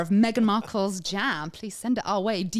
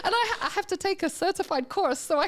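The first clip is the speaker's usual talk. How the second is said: higher, louder, laughing through the words; laughing with delight; 6 semitones higher, 3 dB louder than usual. Real, not acted. Host telling co-hosts he'll judge jam, laughing. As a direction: giggle it out in disbelief. Thrilled about judging jam contest.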